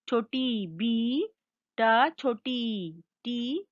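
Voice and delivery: slow, drawn-out "बी" and "टी"; sylaby na pokaz. Shown as a demonstration. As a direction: spell out "छोटी बी, ट, छोटी टी" very slowly. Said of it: "उच्चारण करना सिखाऊंगी".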